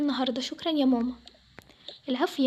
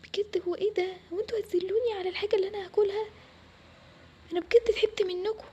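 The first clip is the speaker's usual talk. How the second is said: higher-pitched, wounded complaint; hurt protest; 5 semitones higher than usual. Acted. Daughter protesting being shamed over food, hurt. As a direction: protest in a high, aggrieved voice.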